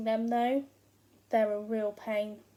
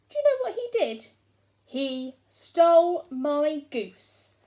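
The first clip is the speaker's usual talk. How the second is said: indignant outrage; 3 semitones higher, 6 dB louder than usual. Acted. Indignant complaint to listener.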